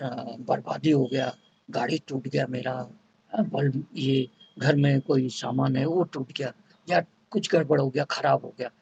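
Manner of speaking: understated imitation of a gloomy complainer; lightly voiced upset person. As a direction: mutter the losses like someone let down. Stressed person laments broken things.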